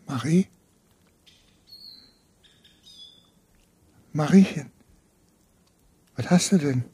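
low, quiet broken pleading; hushed dismay. Acted. Karl pleads quietly with his lifeless wife. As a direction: murmur to her, stunned and afraid.

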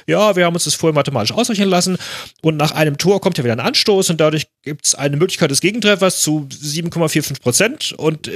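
high, fast, smug calculating voice; know-it-all player. Retold or imitated. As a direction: rattle off the math like a smug nerd. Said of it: "wenn er anschließend gesagt hätte". (überheblicher Schnelldenker)

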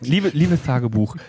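Liebe, liebes Tagebuch said slowly with the s in liebes lisped; slushy lisp. Pretend. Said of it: "Dein Tagebuch lispelt".

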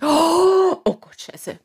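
a touch of panic, jumping up then dropping; mild shock. Acted. Man in the joke seeing the blood, mildly shocked. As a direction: gasp it out in mild alarm. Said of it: "er denkt sich".

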